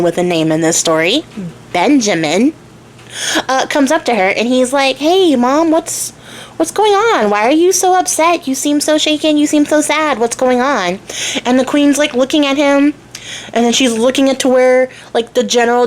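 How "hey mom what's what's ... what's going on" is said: put-on high, bright little boy asking his mother; little son gently asking his upset mom what's wrong; young son. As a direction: play the worried little prince, pitch up. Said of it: "I'm just a little child".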